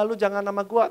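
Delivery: ordinary delivery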